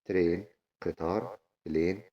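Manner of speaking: ترين and بلين with a long "ay". Shown as a demonstration. Teacher reviewing train and plane, long A in ترين and بلين. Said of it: "بتتنطق إيه طويلة".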